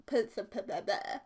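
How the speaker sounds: stuck on perf-, perf-, perf-, slowly; laughing at own stumbling; tongue-tied stumble. Real, not acted. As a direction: trip over perf- again and again. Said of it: "why can't I talk?".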